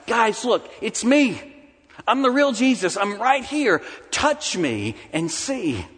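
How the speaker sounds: urgent, insistent, then a slow touch me and see; emphatic. Acted. Jesus urging his doubting friends to touch him, emphatic. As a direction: press the point home, then slow right down. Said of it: "the language in the original is emphatic".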